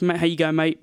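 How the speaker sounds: understated English "mate"; English accent. Shown as a demonstration. Comparing greetings by country, understated English accent. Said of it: "in England, it's like".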